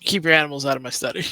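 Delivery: fast, snappy warning; aggressive. Acted. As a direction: snap it at them fast. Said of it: "how aggressive you sounded just now".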